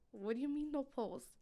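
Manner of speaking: can't believe what she heard; shocked disbelief. Retold or imitated. Mother to social worker, stunned disbelief.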